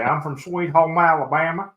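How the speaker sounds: lightly drawled Southern hick accent, a touch hammed-up; a mock Southern hick accent, only lightly put on. Shown as a demonstration. Joking about radio callers, a lightly put-on Southern hick accent. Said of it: "in the most hick voice you could say".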